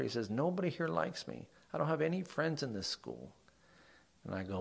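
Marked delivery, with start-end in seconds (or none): 0.3-3.3 higher-pitched retold complaint, lightly upset; mock tearful student. Friendless student answering what's the matter, mildly tearful. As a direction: imitate a crying student without real sobs. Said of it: "and he's crying".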